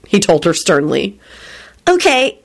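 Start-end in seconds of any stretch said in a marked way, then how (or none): 1.9-2.4 accusingly. A narrator's reading. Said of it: "she said accusingly".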